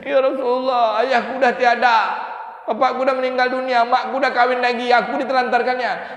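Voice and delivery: high, loud mock wail; acted tearful child. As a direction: plead like a sobbing orphan, acted. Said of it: "Nangis sedu-sedu".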